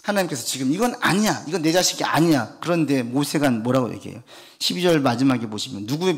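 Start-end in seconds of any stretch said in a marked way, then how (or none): 0.7-2.6 sulking. Retold or imitated. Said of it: "귀엽게 표현하면 좀 삐지신".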